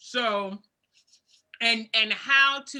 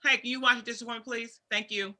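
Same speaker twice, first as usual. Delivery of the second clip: polite sweet request. Shown as a demonstration. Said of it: "add some more pretty words".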